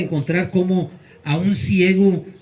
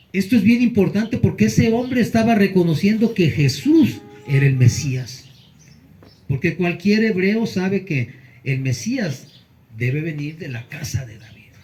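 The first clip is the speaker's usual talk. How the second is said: ordinary delivery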